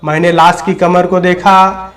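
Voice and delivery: measured first-person storytelling with deliberate phrasing; story narration. A narrator's reading. Dead old man tells listeners of his own death, measured dramatic narration. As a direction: narrate the tale line by line, with pauses between phrases.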